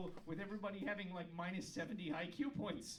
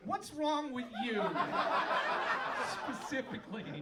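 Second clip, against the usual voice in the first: mock accusing; 3 semitones higher, 7 dB louder than usual. Real, not acted. Calling out one audience member.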